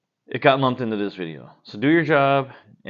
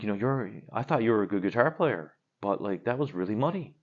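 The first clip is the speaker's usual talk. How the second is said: softer, earnest retold critique; imitating sincere critic; 4 dB quieter than usual. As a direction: gently imitate someone offering heartfelt criticism. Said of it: "he was really sincere".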